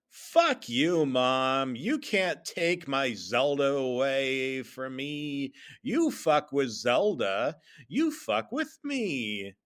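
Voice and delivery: mock-angry kid talking back; hammed-up backtalk to mom; defiant son. Storyteller acts defiant son yelling.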